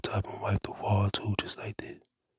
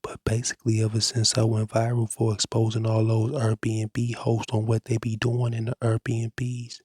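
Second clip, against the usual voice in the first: ordinary talk, nothing marked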